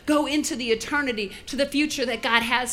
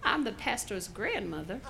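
put-on little old lady; 4 semitones lower, 8 dB quieter than usual. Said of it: "little old lady".

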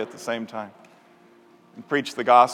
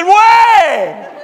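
high, loud laughing shout; gleeful laughing reply; 12 dB louder than usual. Retold or imitated. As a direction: shout it back through a laugh. Speaker confirms laughing.

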